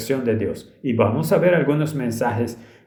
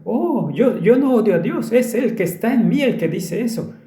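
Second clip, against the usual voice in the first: pleading little voice, pitched way up; small high-pitched voice; 10 semitones higher than usual. Retold or imitated. Possessed girl denying she hates God, small high-pitched voice. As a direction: imitate the girl's high, tiny voice. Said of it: "su pequeño tono agudo".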